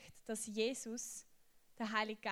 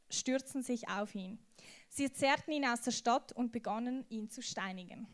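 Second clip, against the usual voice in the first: Bible reading. Acted. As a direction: read the martyr's story with weight, taking your time. Reads Stephen story from Bible.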